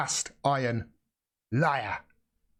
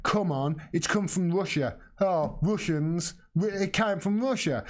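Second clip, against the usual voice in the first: mocking Reddit posters; 5 semitones higher than usual. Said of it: "is like".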